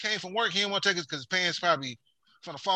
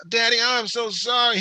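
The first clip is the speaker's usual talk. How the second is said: higher, mock sorry little-girl plea; sister's fake sorry; 5 semitones higher than usual. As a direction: sister sweet-talking daddy to dodge a whooping, whiny. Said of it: "she used to do that bullshit".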